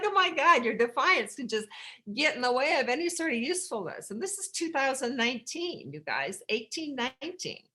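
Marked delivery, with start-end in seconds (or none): 0.0-4.1 higher, louder exclamation; exclaiming. Real, not acted. Mocking her own defiance, higher and louder. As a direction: throw the words up in disbelief.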